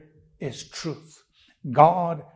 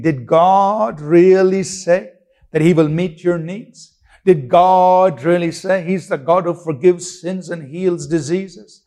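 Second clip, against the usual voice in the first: lightly voiced devil, sly and questioning, leaning on really; a hint of the tempter sowing doubt; mocking devil; 2 semitones higher than usual. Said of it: "That's how the devil speaks".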